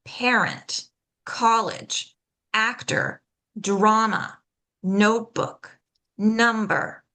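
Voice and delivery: PAR-ent, COL-lege, AC-tor, DRA-ma, NOTE-book, NUM-ber; "parent, college, actor, drama, notebook, number" each front-stressed; word list, first syllable of "parent" through "number" punched. Shown as a demonstration. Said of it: "stress that first syllable".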